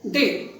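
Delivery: "day" as the isolated first syllable of develop; stressed first syllable. Shown as a demonstration. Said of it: "wrongly the stress on the first syllable".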